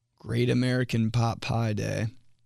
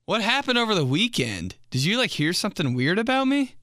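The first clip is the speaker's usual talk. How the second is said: mock anxious; 8 semitones higher than usual. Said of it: "I'm like".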